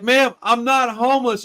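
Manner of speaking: mock offended correction; indignant protest. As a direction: insist you're not homeless, half laughing. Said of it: "And I'm like".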